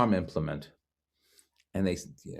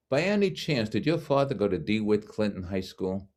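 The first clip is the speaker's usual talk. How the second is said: put-on New York accent. Doctor asking about the patient's father in a New York accent. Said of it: "the most New York accent".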